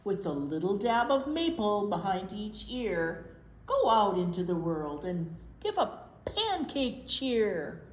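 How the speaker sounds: bouncy sing-song storybook reading; reading to children. Acted. Librarian reading pancake rhymes to kids, sing-song. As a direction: read the rhyme aloud to little kids. Reads rhyming picture book aloud.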